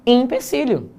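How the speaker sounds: empecilho said with an i, ipesilho, high pitched; spoken pronunciation. Shown as a demonstration. Teacher showing the class how to say empecilho aloud. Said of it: "na hora de falar".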